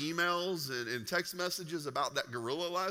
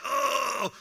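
deflated oh; 7 semitones higher, 6 dB louder than usual. Retold or imitated. Realizes the trainer was right.

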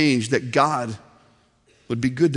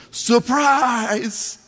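mock crowd yell; 6 semitones higher than usual. Crowd greeting Agnes at her surprise party, mock yell. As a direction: imitate a yelling crowd without real volume. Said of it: "everyone just yelled".

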